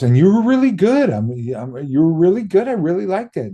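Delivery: hammed-up Quentin raving; mock Quentin praise. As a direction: gush like an excited director.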